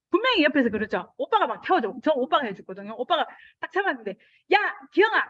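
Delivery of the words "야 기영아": loud high call to pedal; big brother yelling to pedal. Retold or imitated. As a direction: shout encouragement from behind. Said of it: "이러는 거예요".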